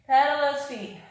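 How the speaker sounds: breathless from the workout; panting between cues; out of breath. Real, not acted. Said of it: "I mean, I'm out of breath".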